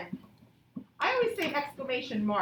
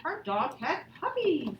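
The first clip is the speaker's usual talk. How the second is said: with expression; 3 semitones higher than usual. Shown as a demonstration. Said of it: "read with expression".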